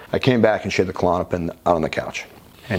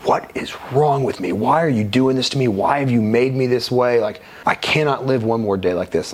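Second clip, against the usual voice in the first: raised, pleading cry, higher pitch; retold scream at God; 4 semitones higher than usual. Man on his knees crying out to God, mild mock yell. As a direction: cry out to God in despair, half-performed. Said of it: "just screaming at God".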